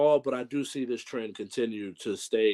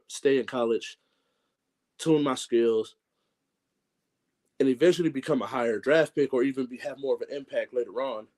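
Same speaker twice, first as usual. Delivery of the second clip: breathless, gasping between phrases; talking while short of breath. Real, not acted. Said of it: "Sorry, I'm out of breath".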